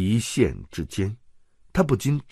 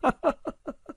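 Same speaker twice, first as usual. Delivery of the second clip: cackle. Acted. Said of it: "他咯咯地笑着".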